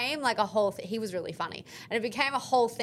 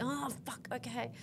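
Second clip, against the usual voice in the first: much softer, defeated giving in; deflated resignation; 2 semitones higher, 11 dB quieter than usual. Retold or imitated. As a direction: sink into reluctant acceptance. Boyfriend gives up, deflated.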